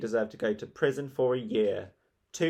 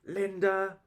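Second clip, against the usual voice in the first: barked; 10 semitones higher than usual. A narrator's reading. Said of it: "she barked".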